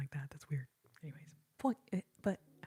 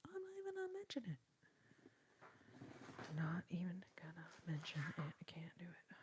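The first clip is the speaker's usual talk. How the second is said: repeats it softer each time, down to a whisper; fading whisper; 4 semitones lower, 13 dB quieter, much faster than usual. Real, not acted. Streamer trailing off to a whisper about the sad song. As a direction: let it die away into a whisper.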